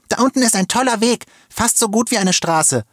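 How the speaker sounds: put-on very high, eager boy's shout; excited calling. A narrator's reading. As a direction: call down great news, thrilled. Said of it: "rief er aufgeregt".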